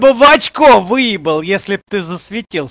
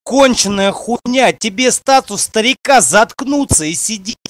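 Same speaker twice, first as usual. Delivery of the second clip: angry shout. Real, not acted. Streamer yelling at chat.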